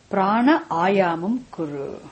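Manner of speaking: "prana ayamam kuru" drawn out slowly, syllable by syllable; slow teaching demo. Shown as a demonstration. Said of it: "use the word kuru with everything".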